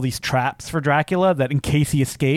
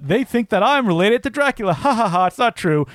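Christopher Plummer. Retold or imitated. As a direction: imitate a film elder protesting with a fake chuckle. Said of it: "Christopher Plummer is con-, continually going like".

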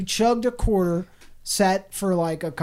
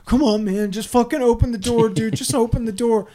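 pleading friend; 3 semitones higher, 3 dB louder than usual. Retold or imitated. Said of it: "pleading with you".

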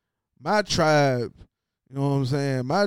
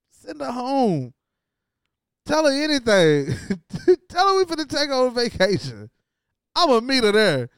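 mock Tiger orders; 8 semitones higher than usual. Voicing Tiger giving orders.

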